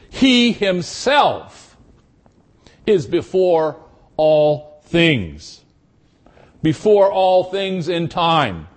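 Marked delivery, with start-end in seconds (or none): 0.1-5.6 "He himself" drawn out slowly and marked; slow down and weigh "He himself"; stress on He himself. Shown as a demonstration. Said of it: "Perhaps we could translate it".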